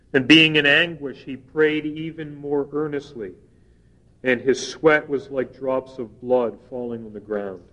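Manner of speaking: measured, solemn Bible reading; scripture reading. Acted. Reads Luke scripture aloud.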